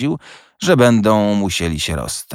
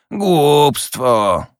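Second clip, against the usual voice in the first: higher, louder one-word retort; dismissive snap; 7 semitones higher, 3 dB louder than usual. A narrator's reading. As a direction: spit the word out in contempt. Scrooge snaps his one reply. (pogardliwe prychnięcie)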